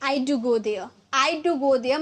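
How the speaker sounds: I do go there, with do leaned on; emphatic do; stress on do. Shown as a demonstration. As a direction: push the word do for emphasis. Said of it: "मैं थोड़ा जोर देकर बोलूँगी ना".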